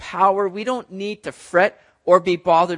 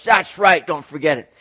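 mock roar; 3 semitones lower, 4 dB louder than usual. A narrator's reading. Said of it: "the lion just roars".

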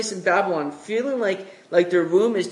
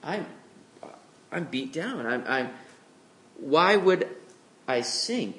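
mock despair; 6 dB quieter than usual. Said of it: "We would look at that and go".

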